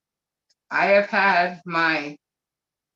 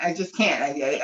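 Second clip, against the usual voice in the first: ordinary talk, nothing marked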